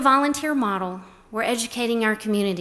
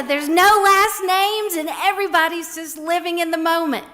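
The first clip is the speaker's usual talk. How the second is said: retold lady's delight; 7 semitones higher, 4 dB louder than usual. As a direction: voice the lady marveling. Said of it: "And she said".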